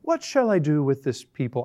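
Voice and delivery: understated exasperation with a touch of fear; slightly angry, slightly terrified. Acted. Moses crying out to the Lord, slightly angry and terrified. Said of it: "slightly angry, slightly terrified".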